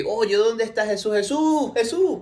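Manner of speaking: mild, high little call; half-hearted calling. Shown as a demonstration. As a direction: call for someone without really shouting. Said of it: "No es como que".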